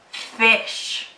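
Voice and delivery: fish ending in a long hushed sh; showing the sh in fish. Shown as a demonstration. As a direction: stretch the sh at the end of fish. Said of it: "repeat after me".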